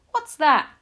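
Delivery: loud, high cry of disbelief; startled question. A narrator's reading. Taxi driver asks about the mouse, astonished. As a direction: blurt it out, taken aback.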